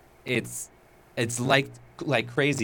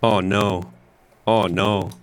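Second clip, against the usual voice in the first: crackly voice; 4 semitones lower, 5 dB louder, slower than usual. Real, not acted. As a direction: voice breaking up with static. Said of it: "you're crackly".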